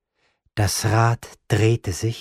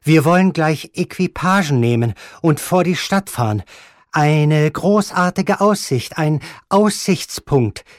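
higher, louder, slowing ingratiating pitch; flustered Desgrieux; 7 semitones higher, 5 dB louder than usual. Acted. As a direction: coax the old lady away with forced charm. Desgrieux voiced in the story.

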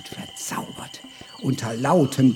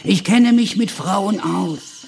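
arrogant braggart; 6 semitones higher, 7 dB louder than usual. Acted. Giovanni lectures the barkeeper.

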